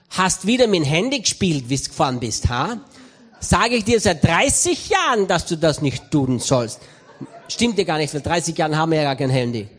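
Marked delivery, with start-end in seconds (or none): 0.1-6.8 scolding wife. Retold or imitated. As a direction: nag him for his thirty-year habit. Wife scolds about the phone.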